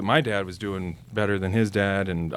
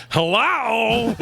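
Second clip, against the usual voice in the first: high, slow goofy dog voice; dopey dog voice; 13 semitones higher, 3 dB louder than usual. Retold or imitated. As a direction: give the dog a dim, drawn-out voice. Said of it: "she talks like this".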